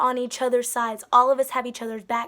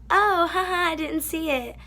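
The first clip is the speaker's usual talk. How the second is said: laughing it off; 4 semitones higher than usual. Retold or imitated. Laughing off missing the food.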